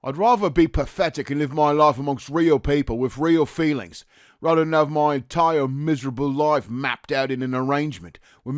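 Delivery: impassioned Cockney tirade, easing slightly towards the end; verbal onslaught. Acted. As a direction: hurl the words at him. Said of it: "Rudge continues his onslaught".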